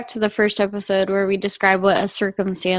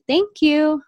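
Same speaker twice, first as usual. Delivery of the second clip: calm thank you; 6 semitones higher than usual. Retold or imitated. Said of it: "very calmly saying".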